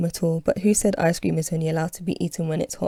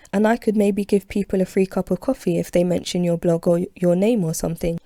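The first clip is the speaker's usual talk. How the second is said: excited. Acted. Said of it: "she says excitedly".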